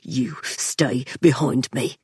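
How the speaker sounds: slow, low whisper through clenched teeth; through gritted teeth. A narrator's reading. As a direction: bite each word off quietly. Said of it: "bitten out through the cage of his teeth".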